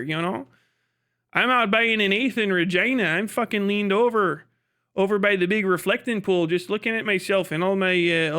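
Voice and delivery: lightly voiced Canadian party guy; a hint of a Regina burnout; Regina local. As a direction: play a rambling small-town Canadian hard case. Plays a Regina local answering his question.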